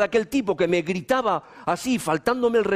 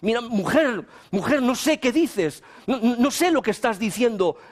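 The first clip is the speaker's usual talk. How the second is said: nervous denial; 3 semitones higher than usual. Retold or imitated. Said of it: "todo nervioso".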